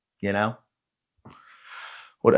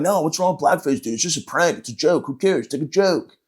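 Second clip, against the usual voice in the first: higher, dismissive mock-objector voice; higher-pitched imitation of a defensive prankster; dismissive heckler; 4 semitones higher than usual. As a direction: lightly mimic someone brushing it off as a joke. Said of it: "a lot of you fucks might be like".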